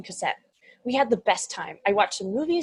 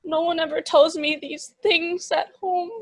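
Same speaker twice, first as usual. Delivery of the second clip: put-on demon child voice; 6 semitones higher, 7 dB louder, slower than usual. Demon child voiced in comedy drama.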